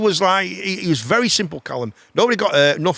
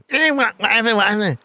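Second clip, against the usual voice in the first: mock bored girl; 6 semitones higher than usual. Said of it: "'cause girls don't like that".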